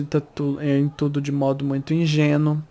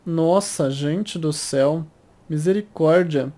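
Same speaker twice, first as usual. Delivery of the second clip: swallowed a bug; slower than usual. Real, not acted. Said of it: "Entrou um mosquito na minha boca".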